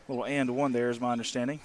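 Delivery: out of breath after running; winded, breathing hard; heavy breathing. Real, not acted. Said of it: "If you hear me breathing hard".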